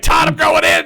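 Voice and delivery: high, full-volume re-enacted charge shout; over-excited gamer holler; retold battle cry. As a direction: yell it to a teammate as you charge.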